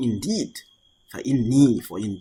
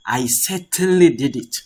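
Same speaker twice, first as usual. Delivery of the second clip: louder, insistent "I certainly did it"; emphatic assertion; 3 semitones higher, 5 dB louder than usual. Shown as a demonstration. Teacher shows students how qad emphasizes a verb, emphatic. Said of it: "it is emphasizing the verb".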